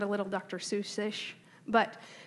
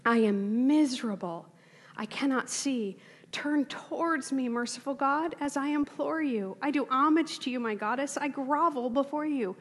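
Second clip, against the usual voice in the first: a higher, imploring reading of an ancient prayer; earnest plea to the gods; 3 semitones higher than usual. Acted. Teacher voices an ancient worshipper begging the gods, earnest higher plea. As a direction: plead with an unknown god, voice lifted but held back. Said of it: "person crying out".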